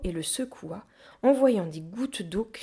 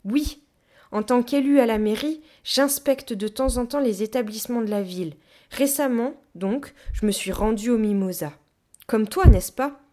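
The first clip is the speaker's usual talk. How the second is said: louder, higher self-important councillor; official Tord, insinuating; 4 semitones higher, 8 dB louder than usual. A narrator's reading. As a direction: announce it officiously, ending on a pointed question. Tord, figure in read story. (élu suffisant, plein de sous-entendus)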